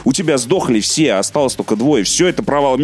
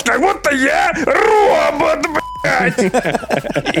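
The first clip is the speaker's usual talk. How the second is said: robot voice; 14 semitones higher, much slower than usual. Retold or imitated. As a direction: imitate a cheap metallic robot voice. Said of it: "он говорит вот так вот".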